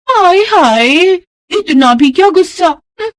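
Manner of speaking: high, slow theatrical huff; hammed-up wounded pride; mock-offended neighbour. (नाटकीय नाराज़गी भरी ऊँची आवाज़)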